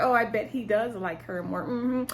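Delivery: lightly imitated sarcastic voice; mock agreement with pointed hums. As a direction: feign interest while doubting every word. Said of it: "started talking in a sarcastic voice".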